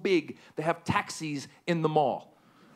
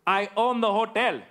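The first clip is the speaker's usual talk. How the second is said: dignified hotel owner; 6 semitones higher than usual. Retold or imitated. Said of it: "He goes".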